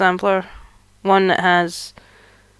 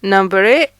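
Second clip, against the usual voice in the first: calling the number out; bingo caller; 4 dB louder than usual. Pretend. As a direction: announce it like at bingo night. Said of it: "back to feeling like a bingo caller".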